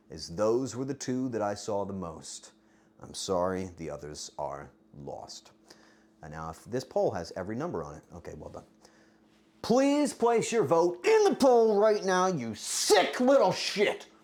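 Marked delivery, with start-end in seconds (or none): 9.6-14.0 worked-up, sudden angry outburst. Asking chat to vote in the poll, getting angry. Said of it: "I don't know why I'm getting angry right now".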